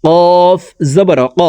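কফ made with tongue root on palate. Shown as a demonstration. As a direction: push ক back to the tongue root. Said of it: "জিব্বার গোড়া তার বরাবর উপরের তালুর সঙ্গে".

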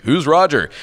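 high, loud clueless cartoon question; Knuckles. Dim teammate misreads radio talk, clueless cartoon voice. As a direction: ask it loudly, missing the point entirely. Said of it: "being the brilliant character that he is".

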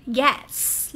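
gets with a crisp hissed s at the end; từ Gets đọc với âm s ở cuối. Shown as a demonstration. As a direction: end Gets on a clear s, not z. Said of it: "là âm s".

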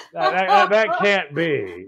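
comic, incredulous protest; mock disbelief. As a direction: stammer high, then drag it out. Acting out disbelieving viewer.

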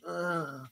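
soft mock moan; imitated moan. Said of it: "she's making all these noises".

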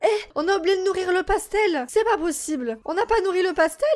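shocked panic over a mistake; alarmed. Real, not acted. Player realizing the pet starved, alarmed outburst.

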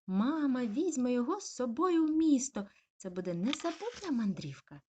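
high, loud eager begging; excited puppy. Acted. Puppy begging mum to take him to town, excited. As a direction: beg mum like an excited pup.

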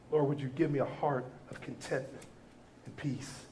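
quoted prayer of a grateful parent, hushed and humble. Retold or imitated. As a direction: pray it low and humble, almost to yourself. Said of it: "You say".

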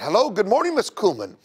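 bright, eager greeting; elders' perky good morning; perky and excited. Retold or imitated. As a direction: greet her with eager cheer. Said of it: "they came extra perky and excited".

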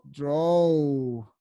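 "Draw" held long, low and falling; modelling pronunciation. Shown as a demonstration. Teacher repeats the new English word, "Draw" stretched out as a model. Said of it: "Dibujar en inglés se dice draw".

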